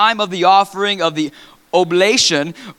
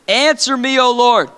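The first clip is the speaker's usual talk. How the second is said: fervent prayer; 3 semitones higher than usual. Acted. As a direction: beg heaven for fire. Elijah praying for fire.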